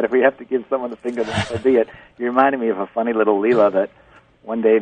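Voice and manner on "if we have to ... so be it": quoting the host. Retold or imitated. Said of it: "when you just said that".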